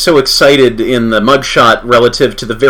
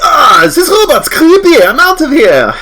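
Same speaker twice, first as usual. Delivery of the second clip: scared henchman; 5 dB louder than usual. Acted. Fleeing henchman.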